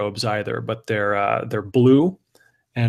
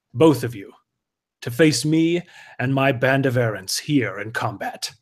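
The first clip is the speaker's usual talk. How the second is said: haughty errant; slower than usual. Acted. GM voices errant issuing challenge.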